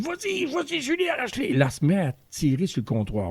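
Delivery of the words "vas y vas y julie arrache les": urging on. Retold or imitated. Coaching her to pull the counter.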